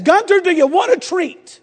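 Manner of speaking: lightly imitating a wife luring the dog; frustrated wife. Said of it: "my wife is so frustrated".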